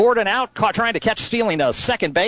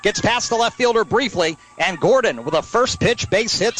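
higher-pitched, running hit call; excited play-by-play; 4 semitones higher than usual. Real, not acted. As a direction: follow the ball with rising excitement. Live call of a base hit.

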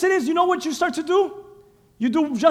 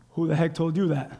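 God rebuking; 9 semitones lower, 7 dB quieter than usual. Retold or imitated. God voiced rebuking Pharisee.

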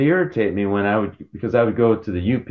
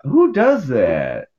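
drawn-out, higher-pitched disbelief; mock incredulity; 4 semitones higher, much slower than usual. Retelling reaction to the batter chant, mock incredulous. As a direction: slowly stretch the question in retold bafflement.

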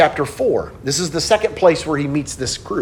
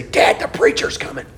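mostly voiceless warning to dad; retold urgent stage whisper; urgent hushed warning; 2 semitones lower than usual. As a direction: imitate a hissed heads-up to a father. Son warns father mid-argument.

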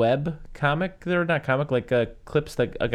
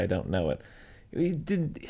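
normal talking voice

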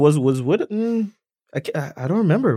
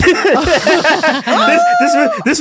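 laughing squeal; 3 dB louder, much slower than usual. Real, not acted. Laughing at disturbing scene.

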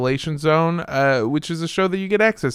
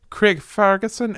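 put-on Scottish accent; 4 semitones higher than usual. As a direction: echo the name in rough Scottish. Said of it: "Scottish touchstone for Scottish accents".

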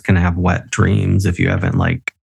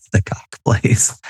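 laughing; slower than usual. Real, not acted. Laughing repeating friend's euphemism.

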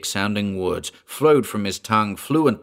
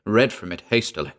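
ordinary delivery

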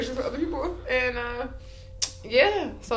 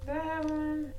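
soft, breathy question; 6 semitones higher, 8 dB quieter than usual. Real, not acted. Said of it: "do you guys hear her?".

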